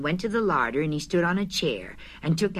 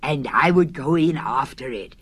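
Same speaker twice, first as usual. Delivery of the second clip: excitedly; 4 semitones lower, 4 dB louder than usual. Acted. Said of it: "said Pooh excitedly".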